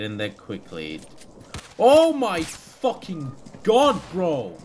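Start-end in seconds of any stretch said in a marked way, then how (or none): 1.8-4.6 loud, slow drawn-out oh my god; shocked. Real, not acted. Gamer just shot at, slow shocked cry. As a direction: stretch it out in shock.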